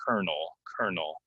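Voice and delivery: "colonel" repeated like "kernel"; pronunciation of colonel. Shown as a demonstration. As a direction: model "colonel" as KER-nul. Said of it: "it's kinda pronounced like this".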